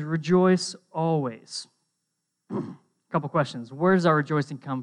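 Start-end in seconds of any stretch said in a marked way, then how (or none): 0.0-1.7 slow, deliberate quote. Shown as a demonstration. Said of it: "What does it say? It says".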